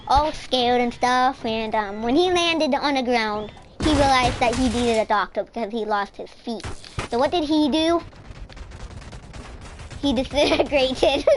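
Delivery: livelier, lifted storytelling voice; playful story narration. Pretend. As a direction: tell the mishap like a made-up tale. Tells a made-up story over play.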